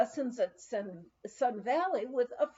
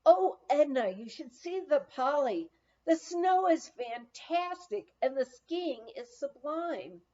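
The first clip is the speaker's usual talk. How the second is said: a friend's cheerful call, a bit higher, the name called out loud; cheery call; 3 semitones higher, 3 dB louder than usual. Retold or imitated. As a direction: relive the friend's happy shout as she skis by. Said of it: "The cheery voice of a friend".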